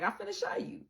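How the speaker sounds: loud, laughing, teasing voice of God; loud mock divine showman; booming God voice. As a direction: play God showing off, loud and playful. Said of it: "God's like".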